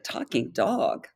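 soft, slow puzzled question; mildly puzzled. Acted. Driver reading an odd roadside sign, mildly puzzled. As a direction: read it back softly, unsure what it means.

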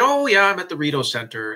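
imitating buoyant cheer. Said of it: "he was very kind of buoyant".

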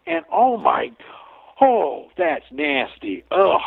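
high, very slow groan of disgust. Retold or imitated. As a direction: recoil from a foul taste, drawing it out. Tasting the owl's frozen mice.

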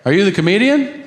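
high-pitched mock yell; retold call out. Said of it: "But he yells out".

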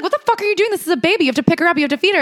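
high-pitched, incredulous mock outrage; retold indignant scolding. Leah to women ignoring a crying baby, mock outraged scolding. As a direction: imitate someone scolding clueless adults.

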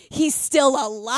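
imitating a slow, drawn-out "alive"; dragged-out alive. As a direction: stretch the word "alive" slowly, like mock Barbara Walters. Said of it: "drags out alive".

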